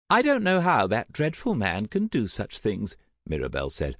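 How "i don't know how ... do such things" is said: high, distressed lament; mildly tearful mother. A narrator's reading. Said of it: "eyes suddenly glinting with tears".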